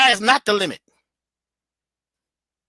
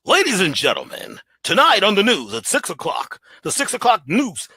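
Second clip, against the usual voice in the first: news intro. Shown as a demonstration. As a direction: open the evening news with formal authority. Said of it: "they're speaking that way to you".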